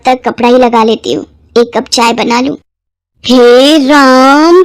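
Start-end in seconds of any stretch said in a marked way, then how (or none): 3.2-4.6 shocked exclamation. Acted. Mother-in-law sees polluted kitchen.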